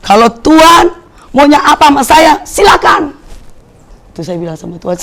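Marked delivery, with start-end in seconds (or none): 0.1-3.2 higher, louder preaching cry; fervent preaching. Acted. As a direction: proclaim it to the whole church. Surrender cry to God.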